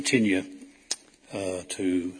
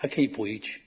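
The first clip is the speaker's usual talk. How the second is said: imitating a stammer; 2 semitones higher, slower than usual. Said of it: "And he said".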